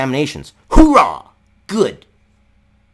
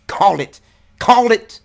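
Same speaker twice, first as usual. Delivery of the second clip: gloating; 8 semitones higher, 5 dB louder than usual. Real, not acted. Gloating repetition.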